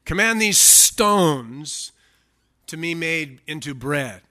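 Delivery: slow command with a hissed S in "stones"; devil's serpent voice. Acted. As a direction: order it slowly, lingering on the hiss. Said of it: "He talks like this".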